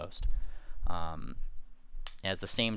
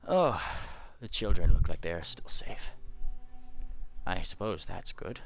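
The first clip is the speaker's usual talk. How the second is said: lightly voiced weary cleric, relieved; a hint of an old father figure coming round; recovering cleric.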